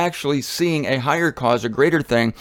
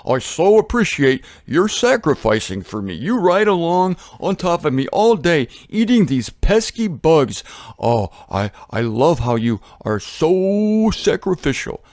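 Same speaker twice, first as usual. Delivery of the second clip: lightly voiced gushing rhino; a hint of a sappy animal character; grateful rhino; 2 semitones higher than usual. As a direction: draw out the praise as a thankful rhino. Rhino answers in acted dialogue.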